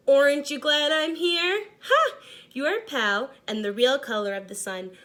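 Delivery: laughing through the words, a high loud cackle of Ha; gloating laugh. Acted. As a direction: crow with laughter over the rival. Orange crayon gloats with laughter.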